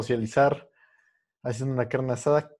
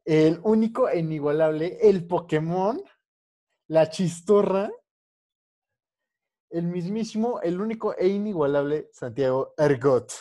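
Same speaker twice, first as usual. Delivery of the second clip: hyped-up announcer intro, pitched higher; grand entrance announcement; 5 semitones higher than usual. Acted. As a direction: build it up like a ring announcer. Host introduces guest hype-style.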